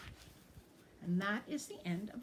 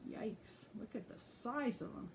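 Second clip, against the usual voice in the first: hushed aside; 7 dB quieter than usual. Real, not acted. Reader's hushed aside to children.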